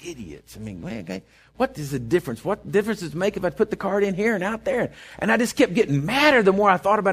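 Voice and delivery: seething to himself at the pump; muttered fury. Retold or imitated. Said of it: "just getting madder and madder".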